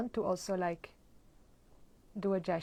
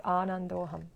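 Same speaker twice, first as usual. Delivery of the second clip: mantra repetition. Shown as a demonstration. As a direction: repeat it like a steady chant, bead by bead. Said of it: "and you say".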